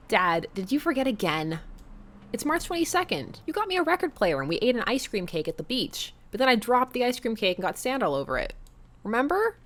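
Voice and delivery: put-on high, bright-eyed teenage chatter; teen daughter. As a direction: answer like an eager teen girl. Teen daughter Amanda voiced.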